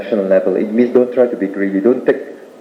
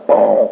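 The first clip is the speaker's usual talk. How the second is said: mock boom of a falling fruit; imitated thud; 3 dB louder than usual. Storyteller mimics the ripe fruit falling, booming imitated thud. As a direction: voice the thump of something landing.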